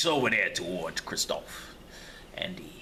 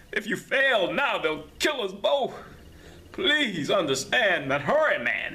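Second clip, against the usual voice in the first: high, slowed, pressing plea; a prisoner begging Ellington to hurry, high and urgent; urgent pleading; 8 semitones higher than usual. Acted. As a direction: hurry him, in the name of mercy. Prisoner urging him to hurry.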